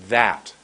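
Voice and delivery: "that" with a long held vowel; a deliberate, drawn-out "that"; lengthened word. Shown as a demonstration. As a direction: stretch out the word "that". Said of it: "For the T H was".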